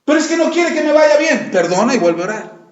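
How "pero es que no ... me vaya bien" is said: whiny excuse-maker. Retold or imitated. Mocking excuses of the unforgiving.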